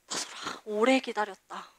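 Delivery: whispered, soft and intimate. Retold or imitated. Her own spirit calling her by name, whispered. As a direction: breathe it like an inner voice.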